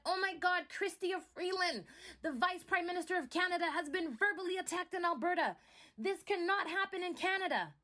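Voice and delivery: mock outrage. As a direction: parody the officials' pearl-clutching outrage. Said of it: "everyone is calling out the fact that".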